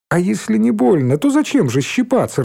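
high mocking reply; mild laughing taunt. A narrator's reading. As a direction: tease her, rising high. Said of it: "рассмеялась Шмакова".

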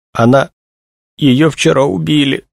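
high, halting, distressed voice; choked out. A narrator's reading. Young woman tells of her friend's murder, choking it out. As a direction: force the words out with a pause after the first. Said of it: "выдавила Тришина".

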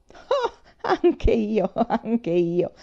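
a lightly voiced old man chuckling along. A narrator's reading. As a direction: chuckle it out, amused. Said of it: "ridacchiò lui". (ridacchiando, appena accennato)

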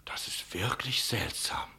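slow, whispered wonder; puzzled whisper. Acted. Innkeeper to the captain, whispering his puzzlement. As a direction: murmur it to yourself, baffled.

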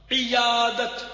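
"عیادت" as iyadat, starting with short i; careful demo "عیادت", i-yaa-dat; correct pronunciation. Shown as a demonstration. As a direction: say "عیادت" clearly with i first. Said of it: "عیادت نہیں".

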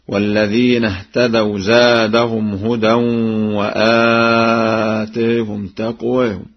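chanted, "تقواهم" as taqweehum, aa tilted toward e; taqlil. Shown as a demonstration. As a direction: recite "وآتاهم" with a long first aa, then an e-like vowel. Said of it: "مما هو معروف من تقليل".

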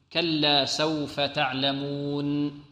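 slow recitation, final nun of تعلمون gently sustained; stop on the nun. Shown as a demonstration. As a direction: draw out تعلمون and let the nun ring briefly. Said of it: "هنا عندما نقف على النون".

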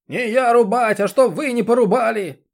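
put-on high, loud bellow at a deaf old woman; a rough man yelling into an old woman's ear; yelling into her ear. A narrator's reading. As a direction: shout so she can finally hear. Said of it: "проорал ей в ухо".

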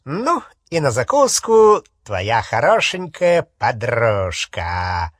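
slow, leering relish. Acted. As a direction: savor her like prey. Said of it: "плотоядной интонации".

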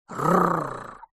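rolled growling r; angry dinosaur growl. A narrator's reading. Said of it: "рявкнул динозавр и затрясся от злости".

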